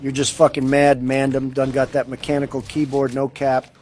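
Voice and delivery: put-on London roadman accent; roadman slang voice. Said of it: "why the fuck are you talking like a fucking roadman".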